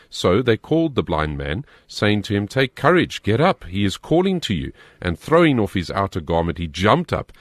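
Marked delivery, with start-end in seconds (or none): 2.5-4.7 raised, higher pitch, urging him up; lifted, heartening call in a Bible reading; encouraging call. A narrator's reading. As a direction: read it as a rousing summons. Crowd encourages blind man in reading.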